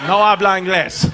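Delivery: lightly acted Spanish dodge; feigned non-comprehension. Son dodging dad's question in Spanish, mock non-comprehension. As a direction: play dumb in Spanish.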